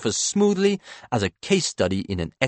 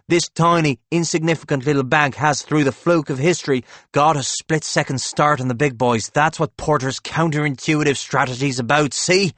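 higher, urgent sales pitch; excited insistence; 6 semitones higher, 4 dB louder than usual. A narrator's reading. Howie urging Claude to seize the head start, excited. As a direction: drive the point home eagerly. Howie preaches the bank's chance.

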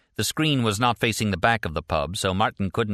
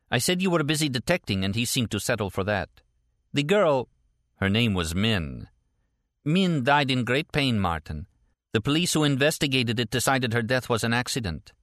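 lightly voiced woman, pitched up; a slightly higher character voice, getting down to business; matter-of-fact report in a lifted voice; Stella, businesslike; 5 semitones higher than usual.

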